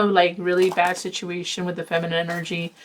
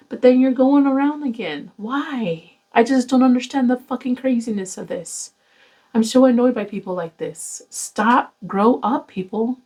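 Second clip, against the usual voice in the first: exasperated, raised scolding; annoyed rant; 4 semitones higher than usual. Real, not acted. Fed-up tarot reader scolding viewers, exasperated. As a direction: scold them to grow up, pitched up and pushing.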